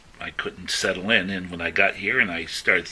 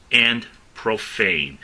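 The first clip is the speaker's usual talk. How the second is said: "profane" drawn out slowly and louder; emphasis on profane; 2 semitones higher, 3 dB louder, much slower than usual. Shown as a demonstration. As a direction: dwell on the word profane. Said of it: "the emphasis is profane".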